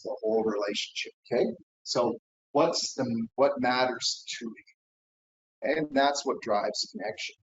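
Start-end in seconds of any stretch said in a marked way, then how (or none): 1.8-5.8 caring question. Shown as a demonstration. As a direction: ask it slowly, gently. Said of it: "different words".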